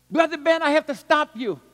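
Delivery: loud, high, urgent cry to stop the speaker; excited interruption. Retold or imitated. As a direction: burst in on the sermon at full voice. Pastor interrupts the preacher.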